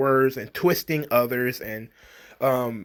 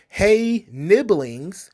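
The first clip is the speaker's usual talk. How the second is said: high, bright mock teacher greeting; hammed-up chirpy classroom hello; mock cheerful greeting; 4 semitones higher, 3 dB louder, much slower than usual. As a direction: sing it out like an overeager teacher. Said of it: "some of the things that were suggested".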